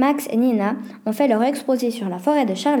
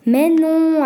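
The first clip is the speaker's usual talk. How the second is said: affirmation forte; 6 semitones higher, 6 dB louder than usual. A narrator's reading. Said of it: "affirme la jeune fille".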